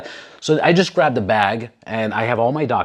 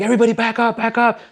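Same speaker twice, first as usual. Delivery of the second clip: higher, barked crowd order; mock officer ordering people back; commanding order; 11 semitones higher, faster than usual.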